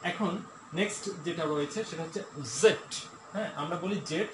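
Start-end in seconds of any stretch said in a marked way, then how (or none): 2.6-2.9 "জেড" as British zed, with a buzzed z. Shown as a demonstration. Teacher introducing the last letter, "জেড" as British zed. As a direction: say "জেড" the British way, z then short e and d. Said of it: "British accent".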